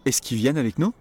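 "Est-ce qu'il" said as "ess-ki", the L dropped; casual spoken French. Shown as a demonstration. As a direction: say it like a native, quick and run together.

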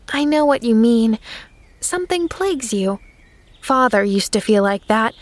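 a hint of a tender little girl; girl comforting the sad minister; lightly voiced sympathetic girl. Pollyanna voiced as child.

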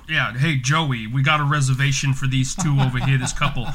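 a light Jersey twang, calling to a coworker; Jersey accent. Retold or imitated. Host calls Joey over for the couple, mild Jersey accent. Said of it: "all of them had this accent".

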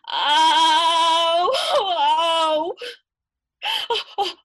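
loud, high wailing cries; old woman crying out loud. Acted. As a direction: howl it out in pain and relief. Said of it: "would yell out and cry".

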